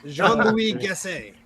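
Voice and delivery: slow, drawn-out French name; French pronunciation. Pretend. Mock French banter.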